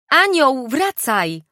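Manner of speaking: loud call into the woods. Acted. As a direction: call out to someone far off. Woman calling into the forest.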